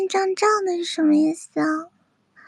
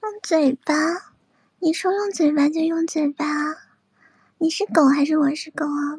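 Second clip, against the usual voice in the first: teasing taunt. Acted. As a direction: taunt them from above. Dominant taunting of chat.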